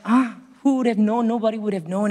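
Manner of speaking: high-pitched amazement, retold; amazed. Preacher recalls the boy's gift, retold amazement. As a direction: marvel at it, lifting the pitch. Reliving astonishment at the boy.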